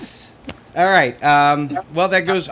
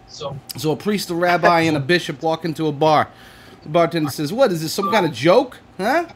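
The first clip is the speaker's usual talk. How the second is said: put-on Brooklyn accent. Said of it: "I'm gonna do this in a Brooklyn accent".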